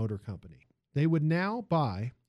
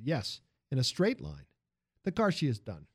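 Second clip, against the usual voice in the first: put-on lively Italian accent, raised pitch. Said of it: "the music of the man's accent".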